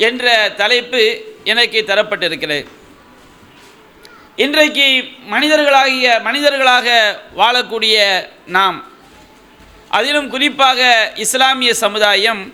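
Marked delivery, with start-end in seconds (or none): 4.4-12.4 preaching. Acted. Impassioned sermon point.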